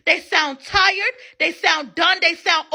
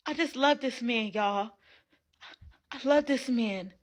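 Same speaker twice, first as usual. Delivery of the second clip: mock teary girlfriend; 5 semitones lower than usual. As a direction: imitate her sounding drained and small. Mocking the woman's cracking voice.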